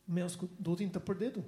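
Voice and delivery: father in Hindi. Retold or imitated. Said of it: "He goes".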